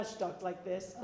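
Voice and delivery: lightly imitated deep-voiced sister. Showing how the fast-talking sister talks now, mock deep voice. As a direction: drop into the sister's deep register. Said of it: "She has a really deep voice".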